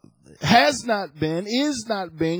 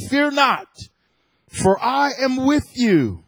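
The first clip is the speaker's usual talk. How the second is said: emphatic, declamatory Bible reading; scripture reading. Real, not acted. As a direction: proclaim the verses, leaning on key words. Reads Isaiah to congregation.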